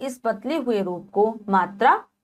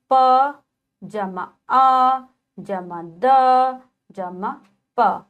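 slow spelling; 2 semitones higher, 3 dB louder, much slower than usual. Shown as a demonstration. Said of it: "teacher spells word parts".

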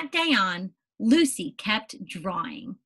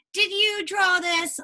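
surprised; 8 semitones higher, 4 dB louder than usual. Acted. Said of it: "Lucy asked Mom and Dad".

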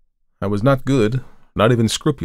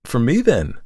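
mock gaiety; 5 semitones higher, 4 dB louder than usual. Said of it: "I demanded gaily".

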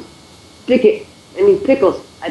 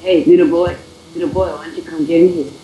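lightly voiced creepy old pervert; a weak attempt at a cartoon creep; badly done creepy impression; Herbert. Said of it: "My Herbert accent is horrible".

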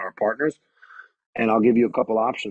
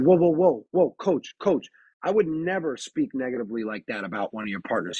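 firm whoa; 2 semitones higher than usual. Retold or imitated. Referee firmly stops the coach.

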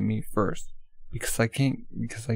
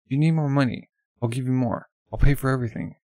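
louder, eager pleading; desperate to pay, raised voice; frantic offer; 2 semitones higher, 4 dB louder than usual. Acted. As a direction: throw money at the problem.

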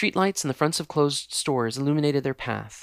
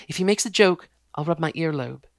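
pleased fiancée; 3 semitones higher, 5 dB louder than usual. Acted. Jessica plans.

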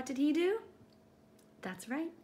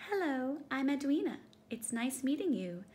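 shy Edwina; 4 semitones higher than usual. Acted. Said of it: "with a shy little smile".

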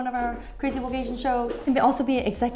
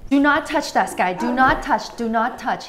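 firm scolding, fading off; 2 semitones higher, 4 dB louder than usual. Real, not acted. Scolding child near camera.

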